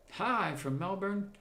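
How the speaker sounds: hammed-up Australian accent, high and drawn out. Streamer greeting a viewer from Melbourne, mock Australian accent. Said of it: "That's my best Australian accent".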